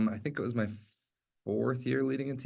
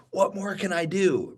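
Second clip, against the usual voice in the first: higher, defeated "What more can I do?" with a drooping fall; negative hopeless; 7 semitones higher than usual. Shown as a demonstration. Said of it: "that exact mentality".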